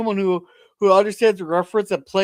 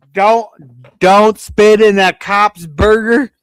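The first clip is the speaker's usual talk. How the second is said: laughing quote; 2 semitones lower, 7 dB louder, much slower than usual. Acted. Quoting movie while laughing.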